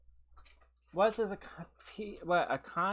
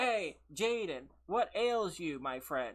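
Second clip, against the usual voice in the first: mocking her radio voice; 2 semitones lower than usual. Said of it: "You talk like this".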